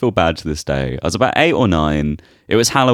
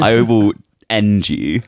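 sore loser; slower than usual. Pretend. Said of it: "such a sore loser".

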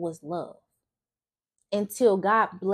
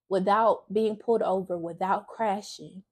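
holding back tears while testifying; getting emotional. Real, not acted. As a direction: voice welling up with real emotion. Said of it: "sorry, I'm getting emotional".

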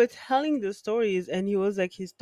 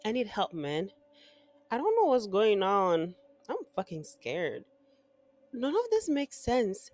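horror story narration. Acted. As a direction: tell it like a campfire horror story. Reads horror story over music.

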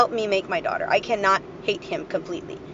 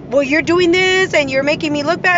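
indignant complaint; 6 semitones higher, 7 dB louder than usual. Retold or imitated. Retold complaint by ex.

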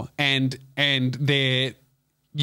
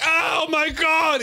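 mock dramatic wail; 13 semitones higher, much slower than usual. Mock dramatic war-movie wounded cry.

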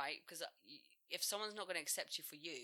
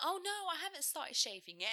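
imitating girl; 11 semitones higher than usual. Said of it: "And she was like".

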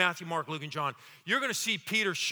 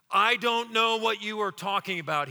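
public denial; 3 semitones higher, 4 dB louder than usual. Acted. Peter to servant girl, firm loud denial. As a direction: deny it for all to hear. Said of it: "Peter denied it in front of everyone".

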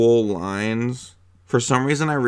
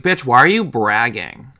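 sassy, louder jab; mock indignant retort; 6 dB louder than usual. Viewer talking back to the skinny girl, mock indignant. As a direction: snap back at her, half-joking.

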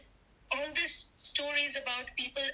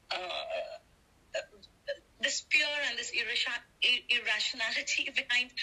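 steadying a shaky voice, near tears; getting emotional; slower than usual. Real, not acted. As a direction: voice catching with real emotion. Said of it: "I'm sorry, I'm getting emotional".

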